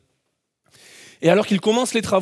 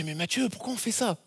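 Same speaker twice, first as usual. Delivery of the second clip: softly voiced wife, much softer, anxious; small worried plea; wife's worried question; 11 dB quieter than usual. Husband voicing his wife in the car, softly worried. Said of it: "Laetitia me dit dans la voiture".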